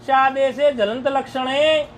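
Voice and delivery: slow, drawn-out level chant-like reading; Sanskrit text recitation. Real, not acted. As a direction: recite the rule slowly, holding the final syllables. (धीमा, लंबा खींचा हुआ संस्कृत पाठ)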